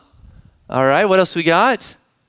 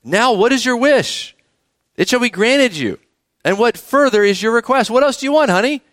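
king to Esther; 5 semitones higher than usual. Acted. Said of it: "he's talking to Esther".

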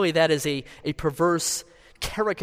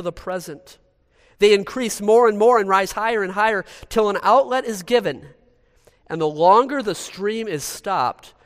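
higher, driving pulpit delivery; hellfire preaching; 5 semitones higher, 4 dB louder than usual. Acted. Preacher warning congregation of God's wrath, hellfire preaching. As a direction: press each warning home from the pulpit. Preacher declaims sermon excerpts, exhorts.

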